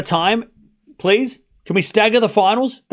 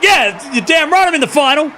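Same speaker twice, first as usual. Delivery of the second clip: mock defiant player; 4 semitones higher than usual. Streamer voicing the winner answering doubters, lightly cocky. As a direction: voice the player mocking her doubters. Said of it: "She's like".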